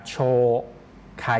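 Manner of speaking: "โช" held as a long vowel, then "ไค". Shown as a demonstration. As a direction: stretch "โช" out long before "ไค". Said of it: "เสียงโชนั้นออกเสียงยาว". (ลากเสียง "โช" ให้ยาว)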